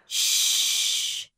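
soft unvoiced shush. The champ shushing an excited fan. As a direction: hush her gently. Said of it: "he went".

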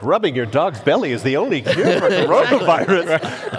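news report read with a laugh; news anchor. Retold or imitated. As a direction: play a breaking news anchor. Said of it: "a news report that's like".

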